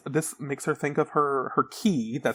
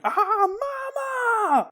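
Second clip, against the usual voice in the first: mock scream; much slower than usual. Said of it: "She's screaming".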